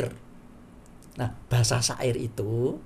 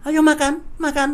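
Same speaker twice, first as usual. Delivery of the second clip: "Ayo makan" higher and louder, urging; loud, high insistent order; firm command; 12 semitones higher, 5 dB louder than usual. Shown as a demonstration. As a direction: push them to eat now. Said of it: "ini berarti perintah".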